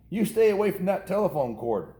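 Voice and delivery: scolding mother. A narrator's reading. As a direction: warn him off like a fretful mom. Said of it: "scolded his mother".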